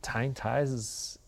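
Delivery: whispering. Acted. Mock confession of difficulty.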